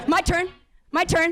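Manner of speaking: mock impatient kids grabbing the phone; kid begging. Sisters fighting over one phone.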